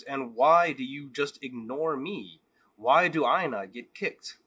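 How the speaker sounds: loud, slow furious demand; furious rabbi. Acted. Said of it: "is furious that this is still going on".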